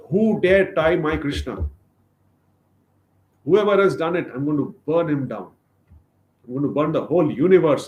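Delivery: loud, high fury at whoever tied him; angry threat. Acted. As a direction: roar it as the outraged protector. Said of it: "he exhibits his anger".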